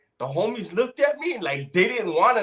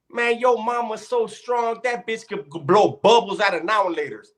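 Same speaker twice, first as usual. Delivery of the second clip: yo mama joke; 6 semitones higher than usual. Retold or imitated. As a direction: deliver the punchline to the crowd. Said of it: "This fool said".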